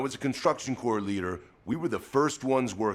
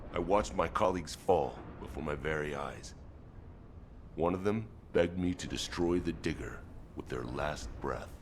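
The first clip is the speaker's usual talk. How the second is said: subdued, lower and softer grief; grieving memory; 3 semitones lower, 5 dB quieter than usual. Acted. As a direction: let the voice sink toward the last word. Recalling colleagues dying before his eyes.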